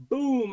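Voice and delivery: a loud, high spoken "boom" for the shot; mock gunshot boom. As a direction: belt out the gunshot like a kid playing. Acting out his gunshot.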